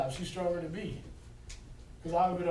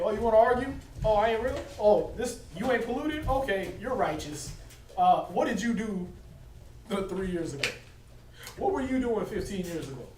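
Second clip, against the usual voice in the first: mock scolding; 3 semitones higher than usual. Voicing the Most High scolding.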